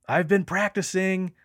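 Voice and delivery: high, loud mental shout; retold yell. Yelling out to the voices in his head. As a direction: yell it out, keen to be noticed. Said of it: "And I yell out".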